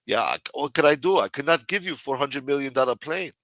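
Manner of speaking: mock South African leader protesting helplessly; South African president. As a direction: plead lightly in a put-on South African accent. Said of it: "the president of South Africa said".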